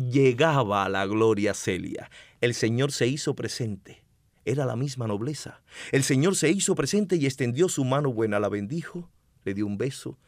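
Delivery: dramatic poetry recital; hammy stage actor. Shown as a demonstration. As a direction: declaim it like a stage poet. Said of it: "declamando una poesía bellísima".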